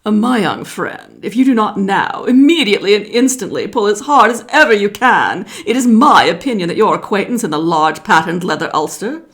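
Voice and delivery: lightly voiced pompous python; python snake. A narrator's reading. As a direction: lecture grandly like a fussy snake. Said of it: "the way all bicolored python rock snakes always talk".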